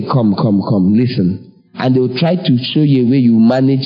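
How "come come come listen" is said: coaxing advisers. Retold or imitated. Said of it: "They will advise you and say".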